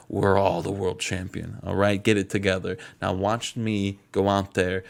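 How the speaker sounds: a hint of Booker T hyping up his crew; mock Booker T rallying the Gentlemen's Club. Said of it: "I'm Booker T saying this".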